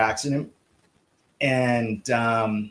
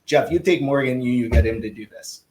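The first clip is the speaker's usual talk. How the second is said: lightly imitated Czech accent; the speaker's bad Czech accent. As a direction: give the order in a badly faked Czech accent. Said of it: "that's a really bad Czech accent".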